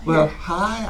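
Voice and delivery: put-on soft, lilting baby-directed greeting; sing-songy. Shown as a demonstration. Teacher greeting a former student's toddler, sing-songy. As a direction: greet a toddler in a gentle singsong. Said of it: "I go into this little sing-songy".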